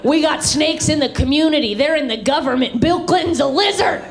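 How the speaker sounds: ranting dad. Retold or imitated. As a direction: rant like a wild-eyed conspiracy nut. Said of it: "dad ranting conspiracy".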